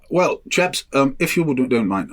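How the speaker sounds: lightly put-on BBC English voice; BBC accent. BBC briefing the film crew, mock BBC accent. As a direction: imitate a polite BBC boss's accent. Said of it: "I don't know why I put this accent on every time I talk about the".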